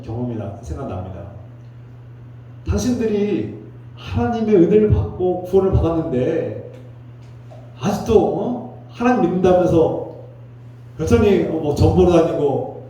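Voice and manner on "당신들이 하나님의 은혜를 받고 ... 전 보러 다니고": re-enacted pastoral telling-off, higher pitched; angry rebuke. Pastor re-enacts scolding church members who visit fortune-tellers, angry. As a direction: scold them in disbelief, pitch raised. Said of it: "하면서 막 화를 내고".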